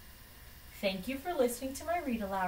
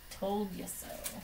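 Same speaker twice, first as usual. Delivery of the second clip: softer, slower Told you so; quiet repeat; 7 dB quieter than usual. Acted. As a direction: murmur it again to yourself, satisfied. Doctor gloats, then repeats.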